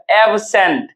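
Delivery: एब्सेंट as two distinct parts, ab-sent; split into syllables. Shown as a demonstration. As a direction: say एब्सेंट in two careful pieces. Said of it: "दो part में तोड़ते हैं".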